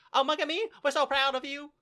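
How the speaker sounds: high, loud mock country voice; hammed-up hick dub accent, rushed; super hick accent. Imitating Megami's proud family in the dub, hick accent. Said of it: "they make them talk super fast".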